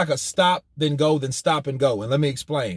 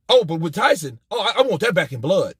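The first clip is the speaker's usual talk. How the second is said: mock eager; 3 semitones higher than usual. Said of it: "That's the go".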